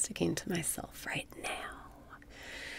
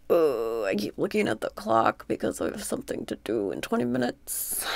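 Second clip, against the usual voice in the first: fretting. Real, not acted. Fretting aloud about the clock.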